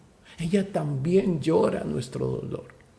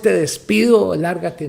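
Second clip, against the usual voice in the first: rude dismissal; 6 dB louder than usual. Shown as a demonstration. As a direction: shove him out the door with the words. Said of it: "No es".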